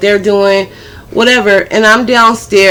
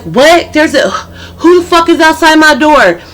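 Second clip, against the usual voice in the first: indignant cousin; 6 semitones higher than usual. Retold or imitated. Cousin jumps up at news.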